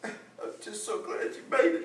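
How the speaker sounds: tearful, breathy whisper through crying. Greeting a returning son, Mama: crying while talking. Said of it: "Don't cry, Mama".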